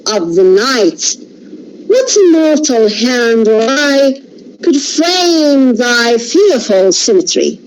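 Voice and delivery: slow, measured reading of the verse; poem recitation. Acted. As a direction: read the stanza slowly and deliberately. Lecturer recites the poem's stanza.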